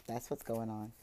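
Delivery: normal talking voice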